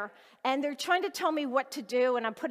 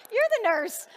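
amused surprise; 10 semitones higher, 6 dB louder than usual. Real, not acted. Finds the nurse in audience.

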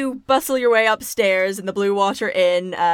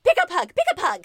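high, fast pleading chant; childlike voice; 9 semitones higher, faster than usual. Acted. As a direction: beg like a small child. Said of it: "She's like".

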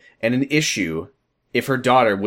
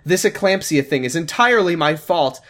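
high hammed-up scream by the end; building to a scream. Daughter blames herself to shocked parents, building into screaming. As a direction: start tearful, build to full shriek. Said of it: "she screamed".

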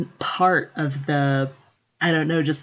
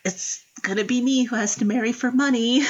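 higher, gentle and resigned; 5 semitones higher than usual. Retold or imitated. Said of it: "trying to very gently say".

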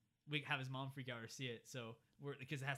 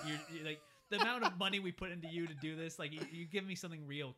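raised-voice mock dressing-down; yelling general; 4 semitones higher, 6 dB louder than usual. General chewing out his agent by phone, mock yelling. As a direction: imitate an exasperated officer scolding, a little louder. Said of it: "the general just yelling at him".

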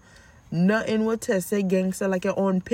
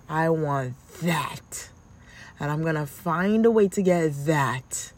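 put-on scheming child. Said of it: "challenge your little brain to saying".

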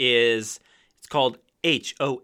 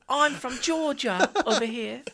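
mock Georgia accent; 11 semitones higher, 3 dB quieter than usual. Teasing a castmate's accent, mock Georgia. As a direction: imitate a hammed-up Georgia accent. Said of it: "then you turned into".

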